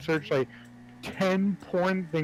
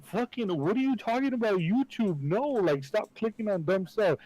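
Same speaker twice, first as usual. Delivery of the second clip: higher-pitched mock exasperation; mildly exasperated; 5 semitones higher than usual. Helper correcting the troll's clicking, mock exasperated. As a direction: scold with a touch of imitated impatience.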